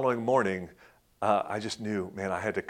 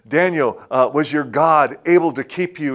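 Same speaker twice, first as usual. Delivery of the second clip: raised, high, loud call; king calling out loudly from above; yelling down; 5 semitones higher, 10 dB louder than usual. Retold or imitated. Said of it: "he yells down to Daniel".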